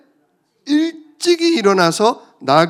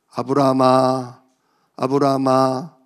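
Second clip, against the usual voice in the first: lower, slow, drawn-out call; God calling; 5 semitones lower than usual. Acted. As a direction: call down from heaven. God calls Abraham. (낮고 느리게 부르는 하나님)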